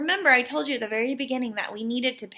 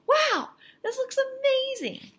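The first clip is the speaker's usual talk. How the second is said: much higher, gushing admirer; awed onlooker. Acted. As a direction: gush like a dazzled visitor. Crowd admiring at art show.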